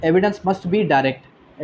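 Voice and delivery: words spaced out and drawn out; slow dictation. Shown as a demonstration. Teacher slowly dictating the rule to students. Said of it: "article seventy ने ये बताया कि".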